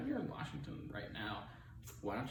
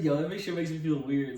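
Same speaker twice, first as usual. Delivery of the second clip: laughing; 2 semitones higher, 8 dB louder than usual. Real, not acted. Cringing laugh at ASMR.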